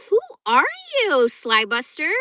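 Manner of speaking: high, loud call-out; loud challenge. Real, not acted. Reacting to a viewer's comment.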